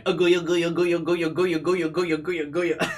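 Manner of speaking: high, loud gibberish parody of an angry dub line; loud comic imitation of a dubbed rant; mocking the dub actor. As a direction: ham up the shouted gibberish. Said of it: "it sounds like he's going".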